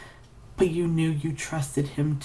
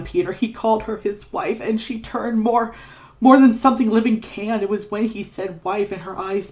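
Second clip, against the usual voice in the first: panicked; 6 semitones higher than usual. Acted. Ignatius recounts horror in panic.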